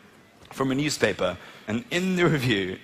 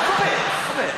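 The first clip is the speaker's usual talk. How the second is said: high mock scold. Real, not acted. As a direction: yelp it at the laughing audience. Scolding the laughing crowd.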